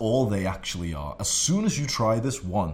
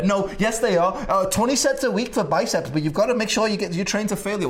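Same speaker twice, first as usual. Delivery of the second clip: higher, louder mock indignant comeback; defensive protest; 8 semitones higher, 5 dB louder than usual. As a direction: argue back earnestly, voice pitched up. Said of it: "and you're there".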